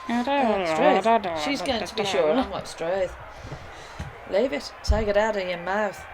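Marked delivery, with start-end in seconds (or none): 2.7-6.0 Australian attempt. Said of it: "I've gotta get this right".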